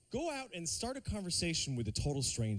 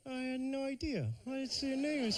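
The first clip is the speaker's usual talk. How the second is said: higher flustered apology; flustered stranger; 6 semitones higher than usual. Retold or imitated. Stranger you can't place, flustered and pitched up. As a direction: play the awkward acquaintance, pitched up. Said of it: "just going".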